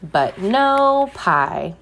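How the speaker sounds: gentle storybook reading with a drawn-out refrain; picture-book read-aloud voice; reading to children. Acted. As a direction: read it to a class of little ones.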